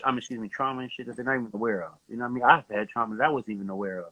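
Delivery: muffled, like through a cloth. Real, not acted. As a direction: talk with the mic covered. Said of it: "You sound muffled".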